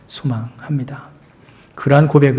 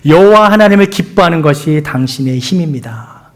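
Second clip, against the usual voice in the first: louder declared confession; confession to neighbor; 3 dB louder than usual. Shown as a demonstration. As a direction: proclaim it to the person beside you. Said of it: "옆에 분들에게 이렇게 고백합시다".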